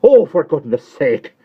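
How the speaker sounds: high, loud, mildly weepy; tearful Miss Pross. Acted. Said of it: "cried Miss Pross".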